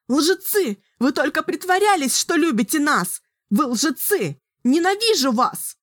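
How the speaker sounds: put-on high, furious girl's screams; young sorceress raging. A narrator's reading. Girl screams at Richard and Kahlan. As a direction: throw hatred at them all. Samantha rages at all.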